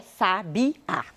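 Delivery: sabiá slowly split into sa, bi, á; syllable by syllable. Shown as a demonstration. Teacher locating the last stressed syllable, syllable by syllable.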